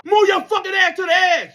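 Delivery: very high, loud barked order; mock drill instructor shout. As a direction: bark the order at a crying recruit. Instructor yelling.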